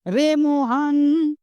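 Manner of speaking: slow drawn-out call across a distance. Shown as a demonstration. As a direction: stretch it like calling someone far away. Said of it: "हम किसी को पुकारते हैं, तो जैसे".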